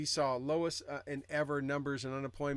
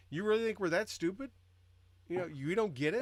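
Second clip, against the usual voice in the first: mildly indignant, raised-pitch questioning; mock incredulous; 5 semitones higher than usual. American people answering the media that thinks they're dumb, mildly incredulous. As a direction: ask it as if mildly insulted.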